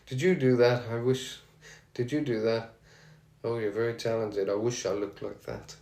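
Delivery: put-on a weak, half-hearted Birmingham accent; barely-there Birmingham accent, self-mocking. Fan retelling Rob's compliment in mild Birmingham accent. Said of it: "It's my best Birmingham accent there, not the best".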